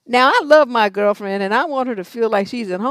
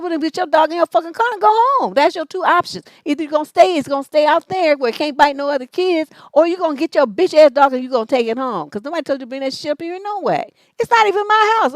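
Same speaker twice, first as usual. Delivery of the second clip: higher, louder ultimatum; retold angry ultimatum; 5 semitones higher, 3 dB louder than usual. Ordering the dog owner out, higher and louder. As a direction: lay down the law to her. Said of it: "I said".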